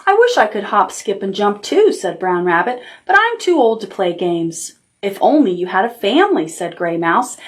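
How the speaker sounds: lightly voiced picture book reading; reading to children. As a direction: read it gently, like bedtime.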